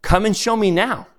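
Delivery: lightly tease, as if near laughing; laughter in voice. A narrator's reading. The other invites the ghost along, amused. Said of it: "with laughter in his voice".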